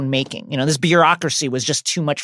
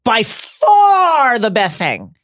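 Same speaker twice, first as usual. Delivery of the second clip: mock crying; 9 semitones higher, 4 dB louder, slower than usual. Overacted crying praise.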